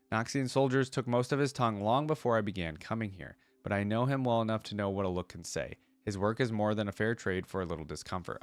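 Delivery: steady storybook reading voice; story narration. Acted. Reading Akali's lore to viewers in a story narration voice. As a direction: read the lore like an audiobook narrator.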